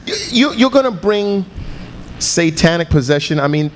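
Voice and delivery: high, disbelieving mockery; incredulous. Real, not acted. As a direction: scoff at it in disbelief. Mocking the claim, high.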